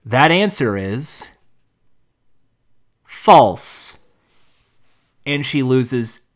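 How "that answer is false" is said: slow robotic announcer voice, final word loud. Retold or imitated. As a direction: deliver it like a cold machine verdict. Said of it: "this robotic voice goes".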